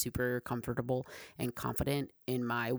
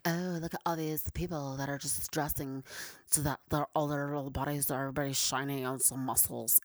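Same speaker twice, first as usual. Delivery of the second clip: mocking gym culture. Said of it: "I don't really like gym culture".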